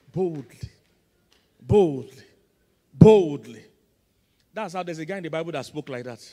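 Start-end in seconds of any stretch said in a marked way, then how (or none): 0.1-3.6 each take louder; three takes, each louder, ending in a shout; building to bold. Shown as a demonstration. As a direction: build from firm to full shout.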